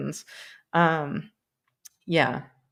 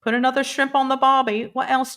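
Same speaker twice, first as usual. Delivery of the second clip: quick, hammed-up Aussie catchphrase voice; bad Australian accent; 7 semitones higher, 3 dB louder, faster than usual. Streamer showing off for an Australian viewer, bad Australian accent. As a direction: badly fake a broad Australian accent. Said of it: "about to do some bad Australian accents".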